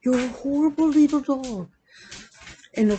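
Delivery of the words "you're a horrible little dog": high, sing-song "horrible little dog"; sweet dog scold. Shown as a demonstration. Owner showing how she talks to her dog, high and sweet. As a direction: say "horrible" sweetly, not mean. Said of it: "I literally say it just like that".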